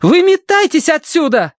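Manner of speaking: high, loud yell. A narrator's reading. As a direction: scream at them to get out. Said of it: "заорала Киврин". (громкий крик)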